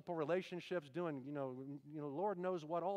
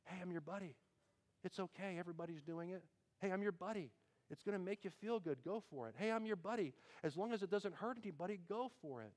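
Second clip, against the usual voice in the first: soft, coaxing whisper-like voice; sweet nothings; 6 dB quieter than usual. Acted. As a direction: sweet-talk like a tempting buddy. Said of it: "he just whispers sweet nothings into your ear".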